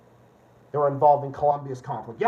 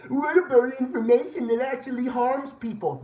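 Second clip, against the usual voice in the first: mocking opponents; 8 semitones higher, 3 dB louder than usual. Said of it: "And then they say".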